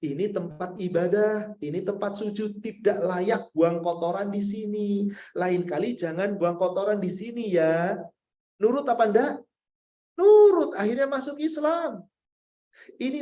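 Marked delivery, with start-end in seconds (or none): 0.0-7.9 the Prophet gently advises the Bedouin; gentle advice. Retold or imitated. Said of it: "baru dikasih nasihat". 10.2-10.7 high, loud burst; preacher loudly answers his own question; emphatic answer. Real, not acted.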